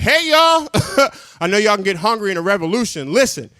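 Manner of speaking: pitchman hollering deals over a bullhorn; lightly hammed-up megaphone pitch. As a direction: sell food to rioters like a hype man. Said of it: "myself on a bullhorn just yelling out".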